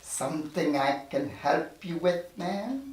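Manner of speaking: tough guy. Acted.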